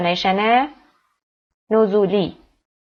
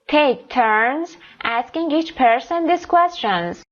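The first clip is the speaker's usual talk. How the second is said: slow careful reading; 4 semitones higher, much slower than usual. Shown as a demonstration. Teacher reads instructions aloud.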